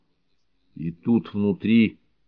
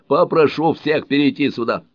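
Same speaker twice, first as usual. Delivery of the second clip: higher, louder call to everyone; raised voice; 7 semitones higher, 4 dB louder than usual. A narrator's reading. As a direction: call out over the group. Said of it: "Он повысил голос".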